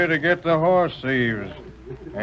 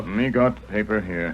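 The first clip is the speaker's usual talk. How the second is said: Tonto's voice; 7 semitones lower than usual. Acted. Tonto reports finding paper.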